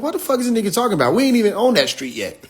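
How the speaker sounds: retelling own baffled reaction, quick; fast baffled quote. Retold or imitated. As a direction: rattle off a confused reaction. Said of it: "I said".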